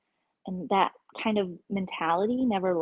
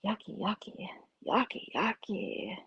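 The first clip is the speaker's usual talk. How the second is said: disgusted whisper; 6 dB quieter than usual. Acted. Disgust chant about the hags.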